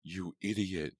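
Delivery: shoving him away with a snarl. Acted. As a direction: spit the insult at him. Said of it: "Jessica snarled".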